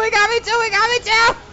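high yelled complaint; shouting. Real, not acted. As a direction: keep yelling in disbelief. Repeated shouted lament.

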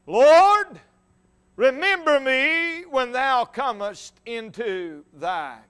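an open, pleading cry; cry for mercy. Acted. Dying thief begs Jesus to remember him, crying for mercy. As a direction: cry out "Lord" high and loud, then draw out the plea. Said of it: "there was an open cry for mercy".

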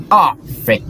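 high frantic shouting; being chased. Real, not acted. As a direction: yell at yourself to run. Chased again, fleeing.

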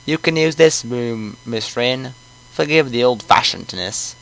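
put-on old coot with a British accent; lightly voiced British old man. Player voices the old man, British accent. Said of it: "He's gonna have a British accent".

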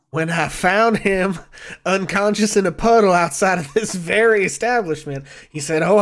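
hint of a storytelling tavern investor; lightly voiced Maloon. Maloon recalls being promised repayment by Oz, lightly acted storytelling. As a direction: spin it out like a skeptical lender. Game master plays Maloon.

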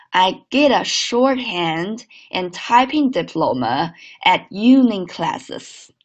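slow linked repeat; slow second model read. Shown as a demonstration. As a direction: read it again slowly and linked.

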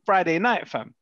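high, animated protest; excited. Real, not acted. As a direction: push it up with disbelief. Excited protest about Christmas.

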